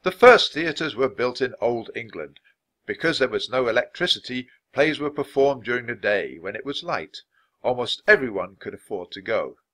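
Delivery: mildly theatrical reading from a book; reading with feeling. A narrator's reading. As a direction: read it out with lots of feeling. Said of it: "so he read with lots of feeling".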